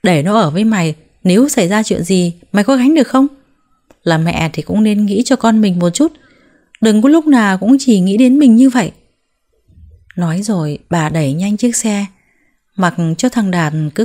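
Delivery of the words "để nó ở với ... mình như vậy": angry shouting, louder at the end; mother-in-law shouts at her daughter-in-law, rising to louder. Acted. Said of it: "và hét lớn".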